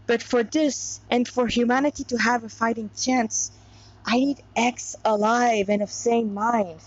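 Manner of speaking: reading a story aloud; steady storyteller voice; story narration. A narrator's reading. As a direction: narrate the tale evenly, like a reader. Reading fan fiction aloud.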